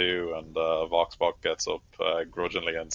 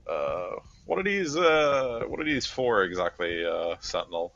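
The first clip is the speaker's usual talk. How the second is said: lightly voiced soldier; slower than usual. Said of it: "Vox just sort of says".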